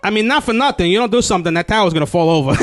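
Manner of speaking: lightly voiced Jersey know-it-all; mock warning from an Italian American; Jersey sightseer. Jersey guy at the Leaning Tower, mock warning. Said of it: "that guy's like".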